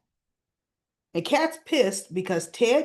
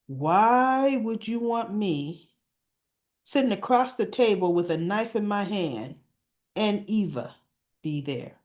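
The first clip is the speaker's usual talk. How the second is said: smile turned sour. Retold or imitated. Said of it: "that smile turned".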